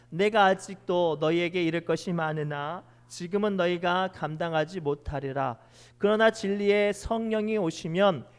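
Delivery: loud unison-style Bible reading; loud group scripture reading. Acted. Congregation reads scripture aloud.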